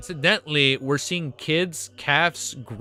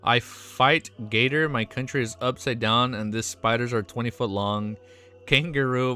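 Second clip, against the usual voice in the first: hammed-up Aussie accent; stereotypical Australian impression. Streamer joking for his chat, stereotypical Australian accent. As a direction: do a caricature of an Australian. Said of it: "my most stereotypical Australian impression".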